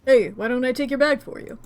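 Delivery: a hint of hammed-up Mrs Lovett Cockney; lightly done Cockney; over-the-top Cockney. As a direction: play it as a deliberately bad Cockney. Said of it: "the over-the-top Missus Lovett kind of Cockney".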